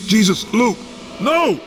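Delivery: very high, loud cry of alarm; panicked, escalating yell; horrified scream. Acted. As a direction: scream out in horror. Horror at brother's fate.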